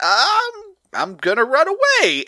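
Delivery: high, drawn-out mock-cowardly wail; mock panic. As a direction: act out a comic retreat. Acting out Rita's panicked retreat.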